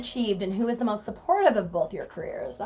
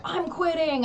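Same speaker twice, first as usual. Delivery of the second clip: mock quitting; 9 semitones higher, slower than usual. Quoting Chase quitting.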